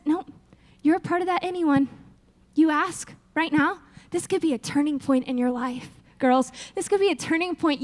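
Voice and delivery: reassuring God. Pretend. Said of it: "And God says".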